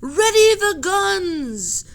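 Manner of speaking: high, loud, slow order; stern command. Acted. Captain orders the crew, high, loud and slow. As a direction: give the order coldly. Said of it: "said the captain".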